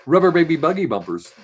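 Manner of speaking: put-on Rubber baby buggy bumpers punched out loud and crisp; DJ tongue twister. Shown as a demonstration. Practising a tongue twister for DJ diction. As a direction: enunciate it like a DJ warm-up. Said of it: "you practice saying".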